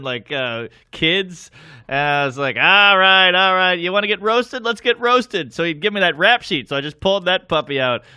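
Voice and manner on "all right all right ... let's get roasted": high and loud fired-up challenge; comic turning on the audience, loud; loud roast call. Retold or imitated. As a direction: dare the crowd to get roasted.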